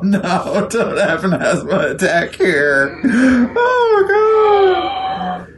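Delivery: laughing through the words; can't stop laughing. Real, not acted. Laughing fit over a joke.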